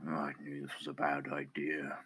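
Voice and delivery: muttered whisper. Acted. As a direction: say it under your breath, half-whispered. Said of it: "whispers, kind of like".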